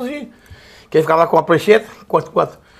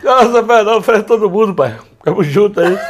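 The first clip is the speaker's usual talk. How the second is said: imitating Gabiru; 3 dB louder than usual. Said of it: "Tá imitando o Gabiru".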